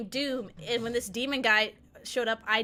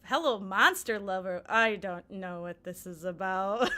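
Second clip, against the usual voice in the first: confused streamer; 4 semitones lower than usual. Retold or imitated. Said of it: "He goes".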